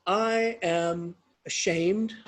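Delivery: slow, heavy acted confession; understated, solemn shame; ashamed. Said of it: "he's ashamed".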